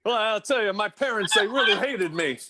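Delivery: lightly voiced put-upon comic; grumbling no-respect comic, lightly done; Rodney impression. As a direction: do a hint of an old-school one-liner comedian. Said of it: "Bring, bring me Rodney".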